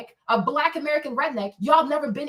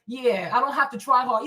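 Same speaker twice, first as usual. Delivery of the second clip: normal talking voice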